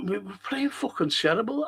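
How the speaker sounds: can't help cracking up as you say it; laughing. Real, not acted. Laughs while recalling bad play.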